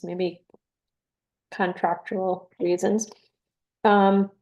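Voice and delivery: talking while crunching a cough drop; chewing a cough drop mid-sentence. Real, not acted. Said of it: "sorry if you can hear me crunching, I'm chewing on a cough drop".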